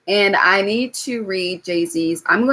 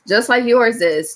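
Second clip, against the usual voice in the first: usual speaking voice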